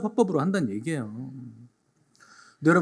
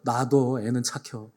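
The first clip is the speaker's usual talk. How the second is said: Chungcheong neighbour; 3 semitones lower, slower than usual. Retold or imitated. Pastor voicing Chungcheong neighbours about a useless youth, slow dialect. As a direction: say it slowly like a resigned neighbour. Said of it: "가장 큰 욕".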